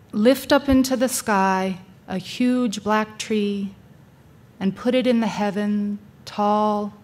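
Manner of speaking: measured poetic reading, long pauses between phrases; poem recitation. Acted. Speaker sharing Rilke's Entrance with an audience, deliberate poem recitation. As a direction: recite it line by line, letting each image settle.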